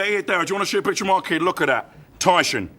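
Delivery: quick, lightly slurred London bouncer; lightly voiced London doorman. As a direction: show off like a Cockney doorman. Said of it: "He's a, he's a Londoner".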